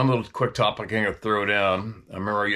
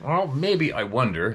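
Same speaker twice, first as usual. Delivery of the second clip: unsure, lifted wondering tone; mild hesitant wondering; tentative musing; 4 semitones higher than usual. Shown as a demonstration. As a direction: float it as a question, not a claim. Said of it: "I always say it as a question".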